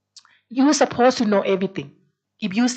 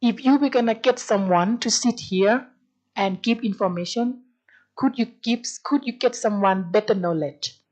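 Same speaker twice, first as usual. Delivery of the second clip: polite reprimand. Retold or imitated. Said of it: "I reprimand in a very good manners".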